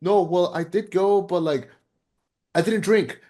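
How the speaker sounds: lightly voiced guilty man insisting he stayed sober; mock defensive excuse. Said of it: "he has his whole thing of, like".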